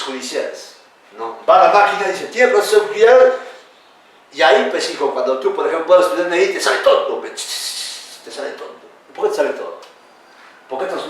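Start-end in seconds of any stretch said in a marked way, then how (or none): 2.3-3.3 higher, louder mock computer query; voicing the machine. The machine voiced as asking. 6.5-8.2 breathy whisper of the words te sale tonto; confiding to students in a whisper; whispered aside. Real, not acted. 8.2-8.9 te sale tonto barely whispered, much softer; repeating the aside to students, almost inaudible; fainter whisper. Real, not acted.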